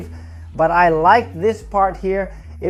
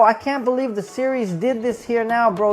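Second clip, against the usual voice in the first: hyped fan; 5 semitones higher than usual. Retold or imitated. Fan recalls seeing the black suit, hyped. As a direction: blurt it out like a thrilled fan. Retelling own hyped reaction.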